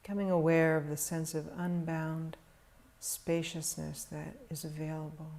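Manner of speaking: calm, measured meditation voice with long pauses; guided meditation. Real, not acted. Teacher guiding meditators to settle into stillness, calm meditation delivery. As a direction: guide them gently into stillness, leaving long silences.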